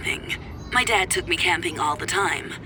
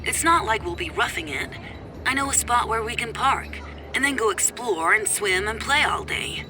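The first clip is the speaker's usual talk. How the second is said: softer, filtered ex-husband on the phone; tinny phone voice; 4 semitones higher, 5 dB quieter than usual. Acted. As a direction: argue down a thin phone line. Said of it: "a tinny voice coming from my phone".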